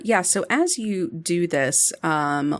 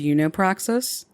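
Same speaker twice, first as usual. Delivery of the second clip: excited question. Acted. Character asks excitedly.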